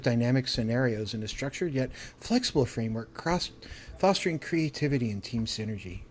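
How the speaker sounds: corporate buzzword voice. Acted. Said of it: "I did it with business buzzwords".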